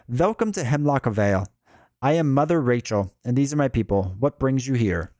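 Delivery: put-on a light German-accented matron's welcome. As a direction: welcome strangers with a touch of German. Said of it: "oh, they're German".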